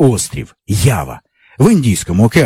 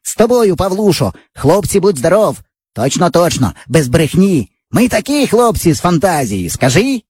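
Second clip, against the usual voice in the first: put-on higher eager boy voice; boyish friend; 5 semitones higher than usual. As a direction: brag like a cocky village boy. Java boasts to Pavlusha.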